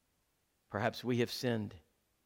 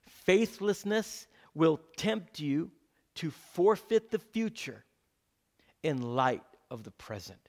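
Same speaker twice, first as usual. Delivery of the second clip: slow dictation; 2 semitones higher than usual. Shown as a demonstration. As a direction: dictate it slowly so they can write it down. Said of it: "say them slow enough so you can write them down".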